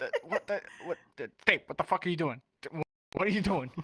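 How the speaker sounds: stammering, mock bafflement; confused. Player questioning the man chanting at the wall, confused. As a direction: stumble over the start, baffled at what you see. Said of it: "fucking confused at the point".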